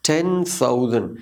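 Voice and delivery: थाउजेंड with a soft th, no final D. Shown as a demonstration. Teacher demonstrating the sound, soft TH. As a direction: say टेन थाउजेंड with airy TH. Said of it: "ये soft sound है".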